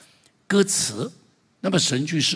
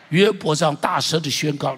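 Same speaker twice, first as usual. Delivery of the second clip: loud proclamation; 3 dB louder than usual. Shown as a demonstration.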